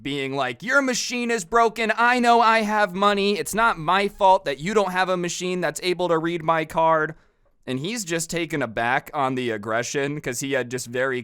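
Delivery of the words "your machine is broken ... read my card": high-pitched mock protest; acted defensive outburst in a higher voice; insanely defensive. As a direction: imitate a customer defending herself, pitched up. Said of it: "she starts getting insanely defensive".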